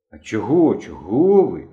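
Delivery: embarrassed. A narrator's reading. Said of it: "зовсім зніяковів Генка".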